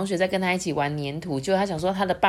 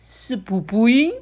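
high loud fumbling, slowing at the end; flustered queen; 12 semitones higher, 6 dB louder than usual. Acted. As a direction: stumble over the word in a fluster. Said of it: "皇后接着说".

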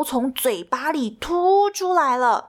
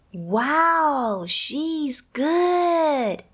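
put-on impressed children; 5 semitones higher, much slower than usual. A narrator's reading. Children's thought voiced.

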